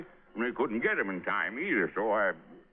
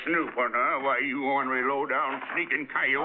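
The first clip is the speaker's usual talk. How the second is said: put-on louder, higher indignant old-timer; angry scolding; 5 semitones higher, 4 dB louder than usual. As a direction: bawl him out as a sneaking coyote. Old man catches snooper, insults.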